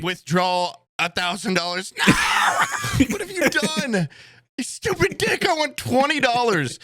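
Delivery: shouting in comic disbelief at the ATM; mock outrage. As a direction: shriek it like the screen just robbed you. Acted outburst at ATM mishap.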